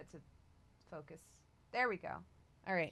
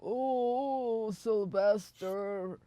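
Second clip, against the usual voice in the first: in-character lament; 3 semitones higher, much slower than usual. Acted. Game master voices the creature's reaction.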